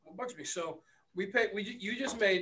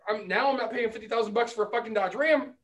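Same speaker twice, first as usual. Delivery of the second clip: loud mock-outraged rant; ranting at co-host over Dodge Ram prices, loud; heated rant; 6 dB louder than usual. Real, not acted. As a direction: vent loudly about the price.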